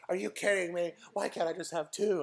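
imitated child's indignant protest; mock freak-out. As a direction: whine in mild disbelief like a kid. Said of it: "she was freaking out".

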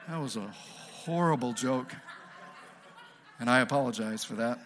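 chuckling through an apology for a bad pun; sheepish laughing apology; laughing at own joke. Real, not acted. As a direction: laugh it off, embarrassed.

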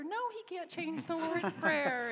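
high, loud, laughing on "Prayer"; laughing answer. Retold or imitated. Christian mom answering about the Pope, laughing. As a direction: laugh while setting them straight.

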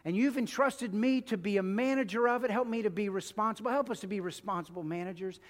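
earnest pastoral prayer, unhurried and devout; closing prayer. Acted. Pastor leading the church in closing prayer, earnest and devout. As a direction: pray over the congregation with feeling.

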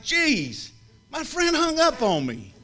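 high, wounded whine to his wife; mock hurt complaint. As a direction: play the hurt friend, pitched high.

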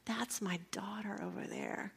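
soft unvoiced aside; hushed whisper. Real, not acted. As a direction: whisper it with wonder. Mother watching from bed.

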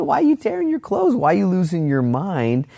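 very high falsetto chiding; comic mock rebuke. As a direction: scold in a silly squeal, easing down toward the end. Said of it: "It's just gentle rebuke from Elijah".

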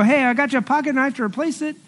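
breezy mock offer of a replacement; imagined friend. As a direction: toss it off like a cheerful well-meaning friend. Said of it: "somebody could come in and go".

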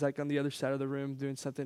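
whispered aside; whispered under the breath. Real, not acted. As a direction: breathe it out as a secret. Aside about the room.

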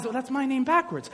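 soft, understated remark; God's aside. Acted. God reacting to Adam's name for dog, soft aside. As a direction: drop it quietly as an aside. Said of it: "God says".

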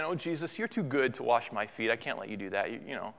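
soft, low false humility; mock-spiritual Peter. Peter declining the foot washing, mock-humble and soft. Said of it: "that sounds kind of spiritual".

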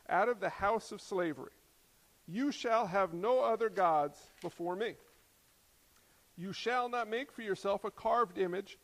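measured, emphatic Bible reading; deliberate pulpit reading; scripture reading. Acted. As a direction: read God's commandments out with solemn weight. Reads scripture aloud.

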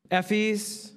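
ordinary talk

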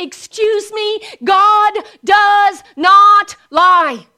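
slow and loud, each word hammered; defiant rebuke. Real, not acted. Preacher answers the enemy with a slow, loud rebuke. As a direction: slam it down, slow.

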